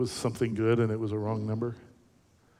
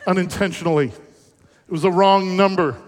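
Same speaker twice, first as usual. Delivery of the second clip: excited realization; 5 semitones higher, 7 dB louder than usual. Retold or imitated. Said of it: "So I'm like".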